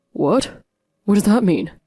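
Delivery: the words hit him hard; stunned husband. A narrator's reading.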